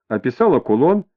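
ordinary delivery

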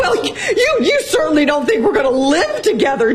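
wife in tears tells husband to leave; crying. Acted. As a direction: sob through the words. Wife breaking down during quarrel.

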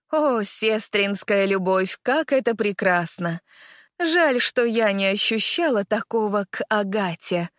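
sneering false admiration; fake tone. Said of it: "произносит королева очень фальшивым тоном".

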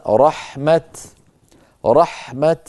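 رحمة ending on a vowelless t; stop with sukun. Shown as a demonstration. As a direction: cut رحمة off at a bare t, not h. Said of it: "يوقف عليها بالسكون فقط". (الوقف على رحمة بتاء ساكنة)

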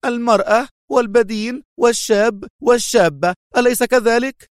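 high, excited taunting list; triumphant needling; worked-up gloating; agitated. A narrator's reading. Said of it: "فأكملت في انفعال".

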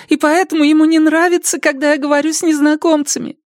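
put-on high young girl's answer. Zoe voiced. (тихий высокий голос девушки)

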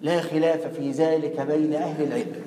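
mock a smug student lecturing; mock know-it-all. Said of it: "تقول". (تقليد طالب واثق زيادة)

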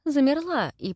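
ordinary delivery, nothing marked

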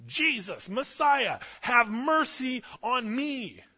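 high, loud, drawn-out desperate yell. Retold or imitated. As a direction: strain to be heard over a hushing crowd. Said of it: "he yelled louder".

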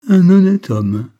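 mock the words with a nasty laugh; sneering cackle. Old professor sneers at the narrator's ambition, sardonic laugh. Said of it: "ricanait-il".

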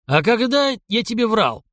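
a hint of a stern old man's threat; menacing old man. A narrator's reading. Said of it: "грозно уточнил старик". (грозно, слегка)

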